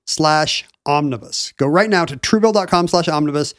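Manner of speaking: slow, emphatic sponsor read. Acted. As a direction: read it like a podcast ad.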